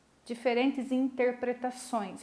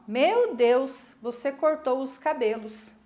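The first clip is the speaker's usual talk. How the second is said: surprised; 3 dB louder than usual. Shown as a demonstration. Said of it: "A pessoa ficou surpresa".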